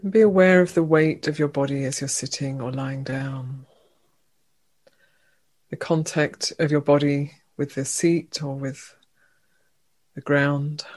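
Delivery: unhurried meditation guide, long pauses between phrases; guided meditation. Real, not acted. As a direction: gently lead them into stillness, leaving room after each phrase. Leads a meditation.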